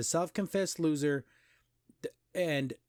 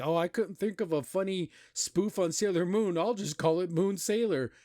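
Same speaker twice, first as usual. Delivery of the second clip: higher-pitched mock quote of a lazy writer; 4 semitones higher than usual. Critic imitates a writer who couldn't think of a spoof, mocking. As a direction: put on a higher voice to ridicule the writers.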